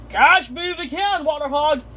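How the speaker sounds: high, sing-out taunt; high-pitched playful dare. Acted. Granddad Dog calls out in chase.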